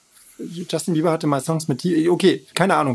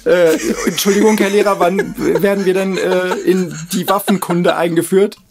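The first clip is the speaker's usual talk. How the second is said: eager pupil voice; 2 semitones higher than usual. Pretend. Plays pupil asking teacher.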